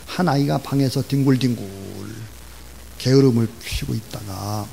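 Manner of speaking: ordinary talk, nothing marked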